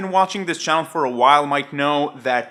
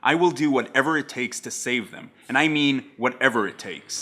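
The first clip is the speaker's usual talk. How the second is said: lightly voiced lower-pitched quote; understated recital of a TV hero's monologue; Jack Bauer; 4 semitones lower, 3 dB quieter than usual. Jack answers Renee's question about saving lives, lightly acted, lower. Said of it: "Jack tells her".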